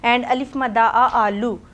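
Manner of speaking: slow sing-song reading drill; teacher drilling the class. Shown as a demonstration. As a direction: chant each word slowly for kids. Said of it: "five times one word को read करना है".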